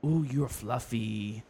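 slow, soft cooing in mock Asian accent; hushed Asian-accented coo; his Asian accent. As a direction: imitate his Asian accent, drawn-out and admiring. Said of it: "he's like".

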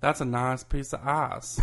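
"nice" and "ice" flattened to "nahs" and "ahs"; Southern long flat vowel in "nice" and "ice"; country pronunciation. Shown as a demonstration. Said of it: "say ice instead of ice".

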